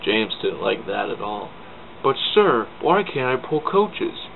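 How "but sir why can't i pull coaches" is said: whiny protest. Acted. James protests to Sir Topham.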